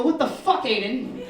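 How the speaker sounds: loud, high disbelieving burst; exasperated yell. Retold or imitated. Teacher sees fifteen rolls of confetti, shocked exasperated yell. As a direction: blurt it out in shock.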